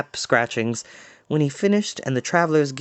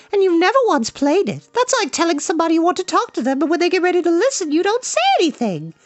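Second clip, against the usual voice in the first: high and fast, teasing reproach; scolding girl; faster than usual. Acted. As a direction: rattle off the complaint like a spirited princess. Eilonwy continues, quickly.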